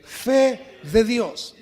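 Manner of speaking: fe de Dios drawn out slowly and loud; loud slow call. Shown as a demonstration. Pastor calling the church to shout fe de Dios, loud and slow. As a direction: stretch out fe de Dios, full voice. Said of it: "Diga bien fuerte".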